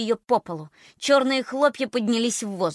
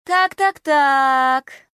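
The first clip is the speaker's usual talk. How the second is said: high, loud sing-song taunting; sing-song drawl; 6 semitones higher, 9 dB louder, much slower than usual. Acted. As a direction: draw it out teasingly. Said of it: "нараспев протянула она".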